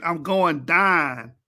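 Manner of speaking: slow mock "I'm going dine"; drawn out, imitating slang. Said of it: "That's a slang term".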